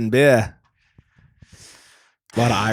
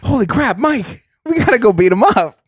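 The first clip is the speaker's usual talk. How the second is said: mock action hero; 7 semitones higher than usual. He plays the star rallying his friend to the cockpit. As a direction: charge off like a B-movie hero. Playing Wahlberg rushing cockpit.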